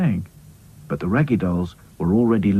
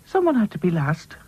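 high, kindly character voice; kindly consolation; 9 semitones higher than usual. A narrator's reading. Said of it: "said Lucy kindly".

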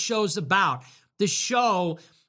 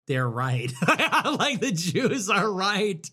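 laughing mock; slower than usual.

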